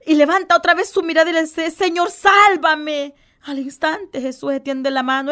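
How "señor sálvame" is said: slow cry. Acted. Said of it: "que le grita a Jesús".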